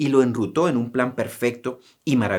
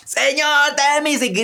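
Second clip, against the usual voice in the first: crying out again; 12 semitones higher than usual. Retold or imitated. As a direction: keep crying out for mercy. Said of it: "y grita, y grita".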